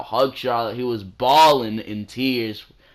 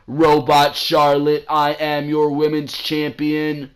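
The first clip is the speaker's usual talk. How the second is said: slow, higher mock robotic promo; 4 semitones higher, 4 dB louder, slower than usual. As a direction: imitate a stiff scripted robot. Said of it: "Charlotte's very robotic when she's speaking".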